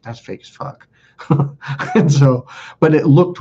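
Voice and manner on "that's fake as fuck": a dry under-the-breath mutter, barely voiced; muttered aside. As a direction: say it low, just to yourself. Thinking it to himself back then.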